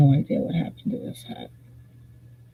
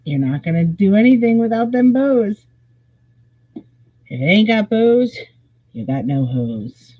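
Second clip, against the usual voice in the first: emphatic; 5 semitones higher, 4 dB louder than usual. Acted. Preachy hat-making rule.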